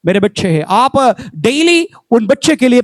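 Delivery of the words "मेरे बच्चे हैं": lower repeat. Shown as a demonstration. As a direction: let मेरे बच्चे हैं sink low, like a private vow. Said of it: "आपको अंदर ये धुन खाना है".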